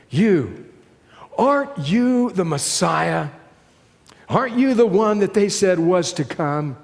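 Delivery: sneering jeers with a scornful laugh at the end; bitter mocking. Dying criminal jeering at Jesus, bitter and mocking. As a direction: taunt him, bitter and scornful. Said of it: "angry and bitter and filled with a mocking intonation".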